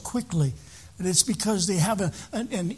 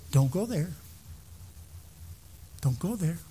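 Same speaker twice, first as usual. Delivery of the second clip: still small voice; 2 semitones lower, 7 dB quieter than usual. Acted. The Lord warning a driver on the road, still small voice. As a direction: say it quietly, without any force. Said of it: "It was one that said".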